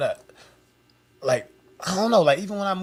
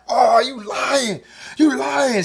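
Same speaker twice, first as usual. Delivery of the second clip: imitating fan; 8 semitones higher, 3 dB louder, much slower than usual. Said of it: "She was like".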